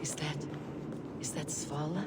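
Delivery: hushed disbelief. Acted. Stunned recognition in vision.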